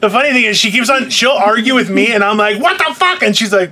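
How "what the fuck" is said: high-pitched exasperated outburst, acted out; mock exasperation. Host replaying his argument with co-host, mock exasperated. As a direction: act out an exasperated protest, pitched up. Host acts out himself arguing.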